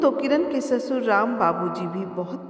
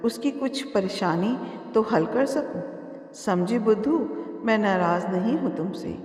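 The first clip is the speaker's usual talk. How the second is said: affectionate. Acted. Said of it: "Ram बाबूजी प्यार से".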